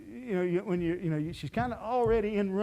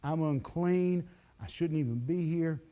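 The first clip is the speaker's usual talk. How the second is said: slow, quiet, a touch of fear; understated frightened whisper of a woman; scared woman; 2 semitones lower, 5 dB quieter than usual. Acted. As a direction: voice her dread, softly and slowly. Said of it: "She's scared to death".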